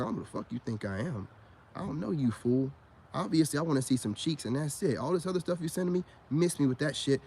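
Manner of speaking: hushed, quick, level telling-off; calm but firm. Retold or imitated. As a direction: put her in her place without raising the voice. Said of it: "I always talk to him calm".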